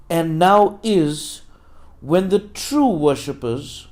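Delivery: measured, emphatic Bible reading; scripture reading. Acted. Preacher reads the verse to the congregation, scripture reading. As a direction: read scripture out with deliberate pauses.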